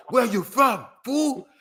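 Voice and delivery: put-on banging on him in an Arab accent; hammed-up Arab accent gang challenge; mock Arab accent. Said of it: "with the Arab accent".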